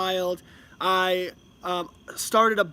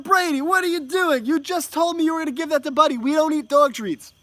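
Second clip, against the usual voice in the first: high, loud retold parent's telling-off; acting out a loud parental protest; mock scolding; 7 semitones higher, 5 dB louder than usual. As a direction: exclaim in exasperated mock reproach. Retold scolding after second trick.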